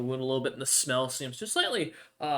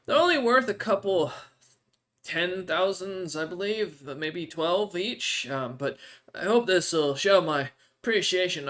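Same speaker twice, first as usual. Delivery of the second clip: NPC voice; 3 semitones higher than usual. Acted. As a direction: lift into the odd creature's voice, grateful but hungry.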